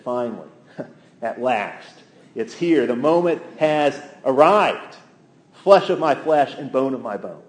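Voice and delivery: Adam's joy at last, lightly acted; joyful excitement. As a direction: savor each phrase with mild excitement. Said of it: "That's Adam's excitement. That's Adam's joy".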